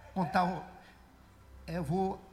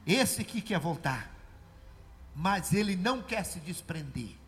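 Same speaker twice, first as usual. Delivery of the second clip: lower, slow, solemn hint of Jesus; 4 semitones lower than usual. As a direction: speak slowly and gravely as Jesus. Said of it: "Aí Jesus falou".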